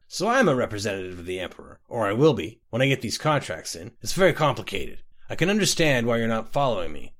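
tipsy boastful rambling; a drunk man bragging over his mug; slurry, pleased-with-himself drunk; drunk Scotty. Acted.

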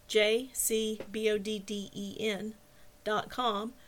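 slow, evenly spaced letters; spelling out slowly. Real, not acted. Host spelling a web address for listeners, spelling out slowly.

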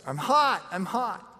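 put-on high little boy whimper, lightly done; mild high child's plea. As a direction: imitate a scared small boy. Scared child voiced in story.

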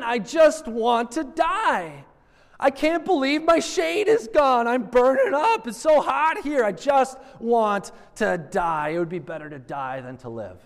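high, loud whining complaint, fading at the end; whiny tantrum. Retold or imitated. Jonah whining to God about the lost shade, high and loud. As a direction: wail like a sulking child who wants to die. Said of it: "temper tantrum throwing Jonah".

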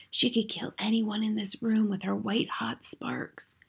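slow frightened whisper; hushed warning, drawn out. A narrator's reading. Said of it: "I whispered".

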